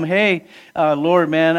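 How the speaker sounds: P=A; casual. Pretend. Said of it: "I'm trying to be casual".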